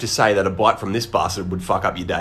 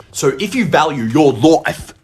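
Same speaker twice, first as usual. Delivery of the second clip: slow mock-dire warning; 4 semitones higher, 4 dB louder than usual.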